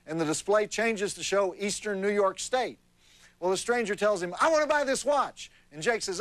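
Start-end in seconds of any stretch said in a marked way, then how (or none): 4.4-5.5 higher-pitched, mildly excited acted demand; eager buyer. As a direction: play a stranger keen to buy. Stranger in joke, eager to buy.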